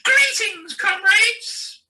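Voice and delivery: rousing comrade greeting; mock socialist greeting. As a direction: hail the comrades like a party leader. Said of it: "the one I had prepared for last year if that terrible oik Jeremy Corbyn had won".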